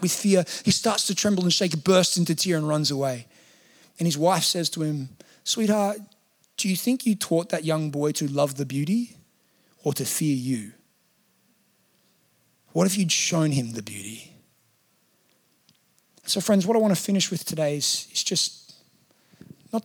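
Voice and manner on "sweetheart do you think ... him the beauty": gentle reproof. Retold or imitated. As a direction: ask it tenderly, with pauses to let it land. Wife gently reproves husband.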